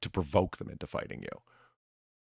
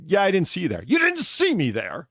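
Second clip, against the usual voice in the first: higher, louder British echo, slowing on the repeat; incredulous British accent; 9 semitones higher, 7 dB louder than usual. Retold or imitated. Showing how to sound incredulous and British by repeating him back. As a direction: parrot the words back, British and disbelieving. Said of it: "just in the accent".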